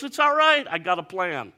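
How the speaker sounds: very high, loud breezy reassurance; sing-song calm them down; Jesus cheerily reassuring the disciples, very high; cheerful assurance. Retold or imitated. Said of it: "He goes".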